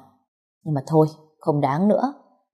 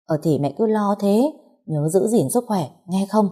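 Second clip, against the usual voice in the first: softened voice; 3 semitones higher than usual. Acted. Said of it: "dịu giọng một chút".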